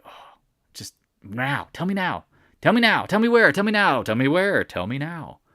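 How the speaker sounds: rising, pushy mock demand; impatient demanding viewer. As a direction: hammer the demand like an impatient kid.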